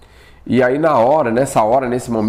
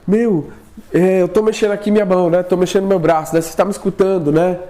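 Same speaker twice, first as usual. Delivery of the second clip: retold shout; 6 semitones higher than usual. Husband calling wife after paralysis, high urgent mock shout. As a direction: call your wife's name urgently. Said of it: "e gritei".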